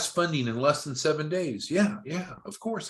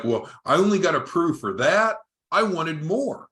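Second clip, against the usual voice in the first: imitating a disgruntled client, higher and louder; mock client complaint; 5 semitones higher, 4 dB louder than usual. Disappointed client objecting to a small first approval, mock complaint. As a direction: protest like a let-down customer, pitch up.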